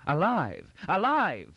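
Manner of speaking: put-on high, mounting exclamation in an old ruler's voice; thundering. A narrator's reading. Emperor learns the rebel yet lives, thundering. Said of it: "thundered Dagobert".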